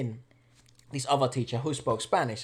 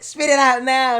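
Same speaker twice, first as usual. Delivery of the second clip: mock stern order; 9 semitones higher, 10 dB louder, slower than usual. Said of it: "then she's like".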